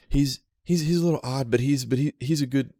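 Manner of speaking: a fond but tired little animal; raccoon voice. Acted. Lime explaining his owner to Carla, lightly voiced critter.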